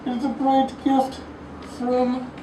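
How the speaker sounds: loom over the words like Bane. Pretend. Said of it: "if I can do Bane right now".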